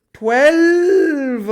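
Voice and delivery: high, loud, drawn-out shout that cracks. Real, not acted. Teacher counting electrons for students, voice cracking. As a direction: stretch it out loud until the voice breaks. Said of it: "that's a voice crack".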